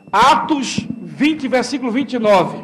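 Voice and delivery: slow, deliberate citation. Shown as a demonstration.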